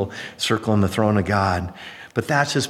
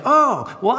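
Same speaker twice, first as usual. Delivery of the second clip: put-on old lady's response; 11 semitones higher than usual. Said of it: "So it's like".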